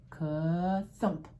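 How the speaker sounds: drawn-out "ka", then a punched "thump"; storybook thud sound effect; imitated thump. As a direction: act out a heavy bag landing. Imitates bag of candy thumping.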